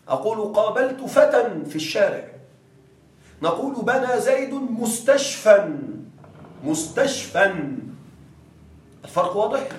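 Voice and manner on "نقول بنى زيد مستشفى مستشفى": مستشفى said mustashfan with a final n; slow, stressing the tanwin in مستشفى. Shown as a demonstration. Teacher contrasting مستشفى with tanwin, mustashfan, slowly. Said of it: "لكن هذا بتنوين".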